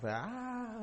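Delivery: long, soft imitated moan; faint wail of suffering, acted; mock wail. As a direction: imitate distant lamenting, drawn out and quiet. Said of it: "escuchaba lamentos de personas".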